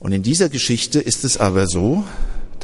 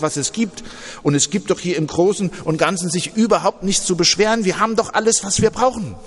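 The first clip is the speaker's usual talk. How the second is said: mild acted fury, rising higher at the end; angry rant; 4 semitones higher than usual. Brother rants at his sister about the womb, mildly angry. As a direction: scold her, building to a high finish. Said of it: "so richtig wütend".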